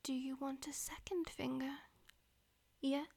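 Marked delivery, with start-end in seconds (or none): 0.0-1.7 whispering. Acted. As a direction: whisper it close to the ear. Whispered throughout.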